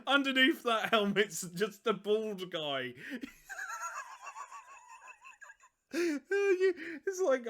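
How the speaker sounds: real laughter breaking up the words; laughing. Real, not acted. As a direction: crack up at your own joke. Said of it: "sorry, I made myself laugh".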